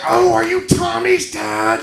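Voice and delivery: lightly voiced nosy stranger, slow; a touch of a puzzled audience member asking; mock curious audience member. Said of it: "some of you guys are like".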